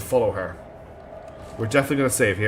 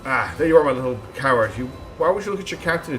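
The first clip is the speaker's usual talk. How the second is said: sneering villain; faster than usual. Acted. Villain voice continues.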